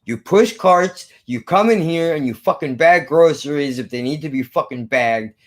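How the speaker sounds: imitated boss seething through clenched teeth; measured, tight-jawed retold scolding; through gritted teeth. Manager laying out the job to teen worker, through gritted teeth. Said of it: "did it through his teeth like that".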